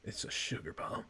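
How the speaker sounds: low whispery sugar bomb voice. Acted. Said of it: "use the sugar bomb voice".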